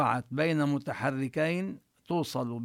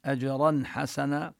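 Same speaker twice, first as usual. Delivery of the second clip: recitation. Shown as a demonstration. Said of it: "tajweed recitation demo".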